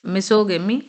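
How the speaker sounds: misogamy with a hard g, "miso-gemi"; g sound. Shown as a demonstration. Teacher points learners to the changed sound, g sound. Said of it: "यहाँ पे गा sound आ गया".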